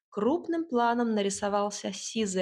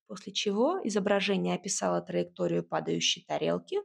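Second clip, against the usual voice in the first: usual speaking voice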